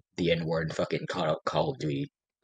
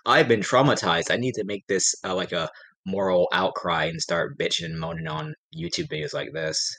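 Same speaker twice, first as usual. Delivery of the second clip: mocking whiny complainer; 6 semitones higher, 4 dB louder than usual. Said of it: "they felt like".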